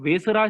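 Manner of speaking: "वेसरा" with short middle, long final aa; "वेसरा" ending in an open aa after the r; variant name pronunciation. Shown as a demonstration. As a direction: say "वेसरा" as VE-sa-raa. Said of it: "कुछ लोग ... कहते हैं".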